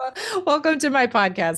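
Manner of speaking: speaking through tears. Podcast host, both host and guest moved by the exercise: crying while talking. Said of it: "We're both crying now".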